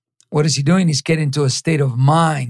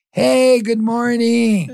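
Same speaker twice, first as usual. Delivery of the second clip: slow bright cheerful greeting, a little higher; smile comes on; 5 semitones higher, much slower than usual. Shown as a demonstration. Salesman greeting the client at the door, slow and smiling. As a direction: switch on a smile and greet slowly. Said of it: "the smile comes on".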